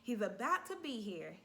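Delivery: high, loud urgent call; mother telling the nurse the baby is here, urgent and loud; urgent alarm. Retold or imitated. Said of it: "I said".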